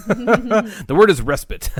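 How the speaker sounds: respite said slowly as RES-pit; corrected pronunciation. Shown as a demonstration. Correcting a friend's pronunciation of respite, laughing. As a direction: stress the first syllable of respite. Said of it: "wrong about saying respite".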